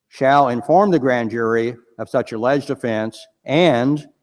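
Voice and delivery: "shall" weighted, the phrase read slowly; stress on shall. Shown as a demonstration. Reading federal law to the panel, "shall" stressed. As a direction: land hard on "shall" as a legal must. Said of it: "I emphasize the word shall".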